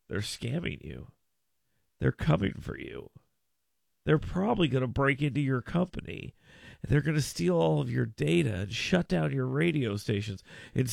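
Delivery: low, hushed start building to insistent menace; mock ominous warning. Host mimicking the company's cybersecurity warnings, mock ominous. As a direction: deliver a mock scare warning, pitched low.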